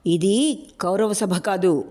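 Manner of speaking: slow, weighty roar; a slow, deliberate mild roar. Acted. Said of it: "Shekhar గర్జించాడు". (నెమ్మదిగా గర్జించడం)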